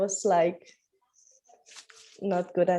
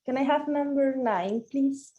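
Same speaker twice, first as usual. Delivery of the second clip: through fencing mask; 3 semitones higher than usual. Real, not acted. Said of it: "Sorry, I'm with my mask on".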